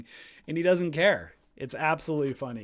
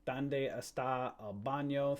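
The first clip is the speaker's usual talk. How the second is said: mock Spanish; 3 dB quieter than usual. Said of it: "I'm practicing my Spanish".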